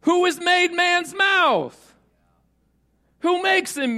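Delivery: slow, loud, high, thundering voice of the Lord; God thundering at a doubting Moses; booming God. Acted. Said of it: "Then the Lord said to him".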